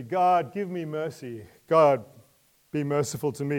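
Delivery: loud plea to God for mercy; desperate loud prayer for mercy; pleading cry. Acted. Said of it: "his pleading is for mercy".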